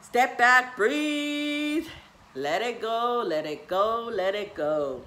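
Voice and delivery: loud, drawn-out release; self-calming mantra. Retold or imitated. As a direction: talk yourself down, phrase by phrase. Acts out calming herself down.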